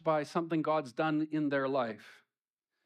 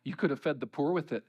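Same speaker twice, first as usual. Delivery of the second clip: mock critic; 2 semitones lower than usual. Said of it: "a critic could look at it and say".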